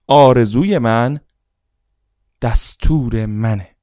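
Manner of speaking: loud, slow affirmation, stretched on دستور. Shown as a demonstration. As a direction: declare it loudly and slowly. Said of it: "با صدای بلند".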